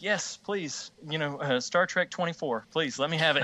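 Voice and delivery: gleeful fan pleading; eager excitement. Retold or imitated. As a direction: beg for the next movie like a thrilled fan. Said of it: "I'm just like".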